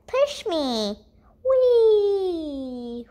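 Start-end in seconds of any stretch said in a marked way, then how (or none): 1.4-3.1 high, gleeful squeal on the swing; excited whee. Acted. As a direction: squeal with joy as you swing up. Unicorn swinging high, having fun.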